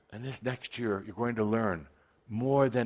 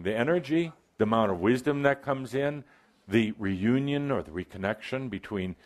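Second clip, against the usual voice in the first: ordinary delivery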